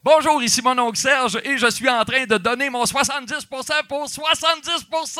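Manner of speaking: bright on-air station ID; radio station ID. Shown as a demonstration. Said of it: "Mais fais-moi un indicatif".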